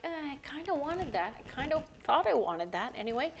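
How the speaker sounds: mock-wistful grumble; reluctant whine. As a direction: voice a mildly disappointed second thought. Voices the disappointed brain.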